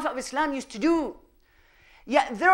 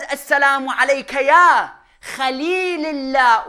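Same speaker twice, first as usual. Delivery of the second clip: recited salutation; 8 dB louder than usual. Retold or imitated. Preacher reciting the salutation to the congregation, loud declaimed recitation. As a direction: call out the holy greeting, stretching the last word.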